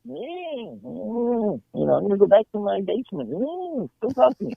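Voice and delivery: imitating aloof grumbling; mock standoffish. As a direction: brush them off with long high hums. Acting out standoffish comics.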